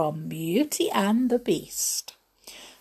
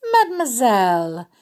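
higher, louder singsong call; sweet call; 4 semitones higher, 6 dB louder, faster than usual. A narrator's reading. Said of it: "he called sweetly".

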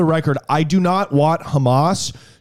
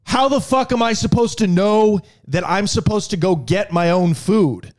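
indignant rant; 4 semitones higher than usual. Retold or imitated. Ranting at the rude waitress.

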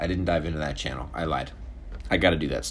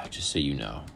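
whisper; 4 semitones lower, 6 dB quieter than usual. Real, not acted. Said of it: "whispered aside".

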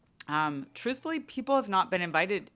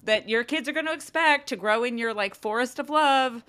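a light, higher-pitched parody of a preachy mom blogger; lightly voiced gushing mom influencer, a touch louder; mocking mom blogger; 5 semitones higher, 5 dB louder than usual. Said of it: "Like, I was joking".

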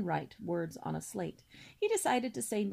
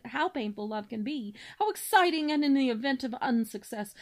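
pompous cob swan; 3 semitones higher, 4 dB louder than usual. Acted. Father swan listing his son's virtues, grandly booming. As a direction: declaim like a self-important father swan. Cob's long grand speech.

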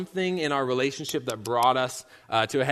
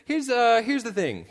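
scrambling high voice; 8 semitones higher than usual. Retold or imitated. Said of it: "I was like".

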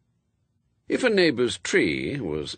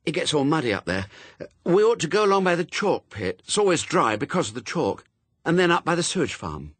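put-on higher, quick, bossy girl; girl Pepper, insistent; 8 semitones higher, 4 dB louder, faster than usual. A narrator's reading. Pepper arguing the route with Adam, higher insistent girl. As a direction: press the route with eager insistence.

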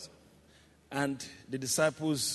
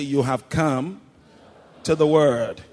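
raised, emphatic declaration; firm call; 9 dB louder than usual. Shown as a demonstration. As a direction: declare it firmly to your neighbor. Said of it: "Be a good preacher".

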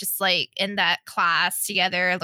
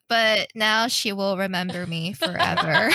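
predatory menace. Pretend. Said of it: "That sounded a little creepy there".

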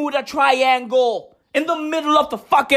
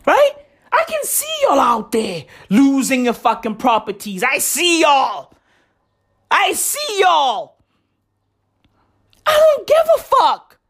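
Trump quote. Retold or imitated. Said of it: "He's like".

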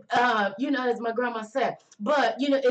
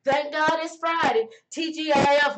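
mock party shout for Friday; excited whoop; 2 semitones higher than usual. Celebrating Friday, shouting woo.

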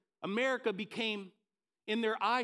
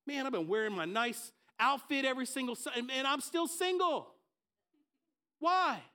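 exasperated complaint; 4 semitones higher than usual. Retold or imitated. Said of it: "you know what I'm saying".

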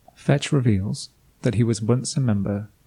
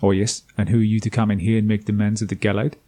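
put-on South African accent. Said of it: "I decided to give him a South African accent".

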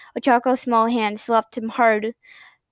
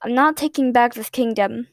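cold. Acted. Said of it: "said coldly".

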